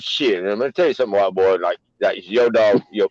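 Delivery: street slang African American accent. Shown as a demonstration. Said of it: "This is my black voice".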